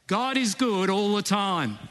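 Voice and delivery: African accent, high and loud. Shown as a demonstration. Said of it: "put on your best African accent".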